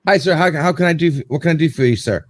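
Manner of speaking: lightly imitated restaurant server greeting; a hint of polite waiter patter; customer-service politeness. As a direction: offer help as if to a diner, retold. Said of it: "like, I'm talking to a customer".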